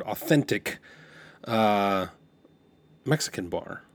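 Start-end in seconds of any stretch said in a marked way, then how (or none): 0.0-0.8 AUTHENTIC pronounced with deliberate weight; emphasis on AUTHENTIC. Retold or imitated. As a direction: imitate a friend overemphasizing authentic. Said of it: "put a lot of emphasis on that word".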